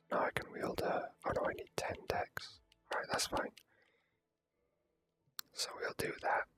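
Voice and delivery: usual speaking voice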